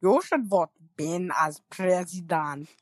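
Arnold impression. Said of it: "what can I say about that impression".

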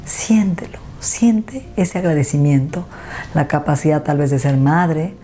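unhurried meditation guide with long pauses; guided meditation. Acted. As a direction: lead the listener gently through it, phrase by phrase.

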